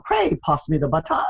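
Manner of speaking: lightly imitated British accent. Daughter mimicking father's perfected English, mock British accent. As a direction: put on a touch of mock British. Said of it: "in a British accent".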